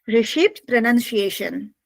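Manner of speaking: slow, spaced-out dictation; dictating while writing. Real, not acted. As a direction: say it slowly as you write it out.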